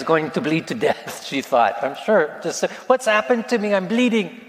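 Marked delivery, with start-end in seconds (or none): 2.9-4.4 put-on higher, mildly panicked child's cry; high-pitched retold wail of a frightened little girl; imitating crying child. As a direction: act out a hurt toddler wailing. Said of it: "She was just yelling".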